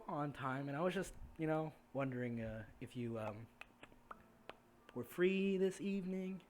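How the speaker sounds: halting, tentative invitation that rises in pitch; awkward prince. Acted. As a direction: stumble nervously through asking someone out. Game master voices a bashful prince.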